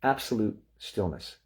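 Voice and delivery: absolute stressed with a falling tune. Shown as a demonstration. Teacher stressing absolute to the class. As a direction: lean into the word absolute. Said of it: "And I always emphasize".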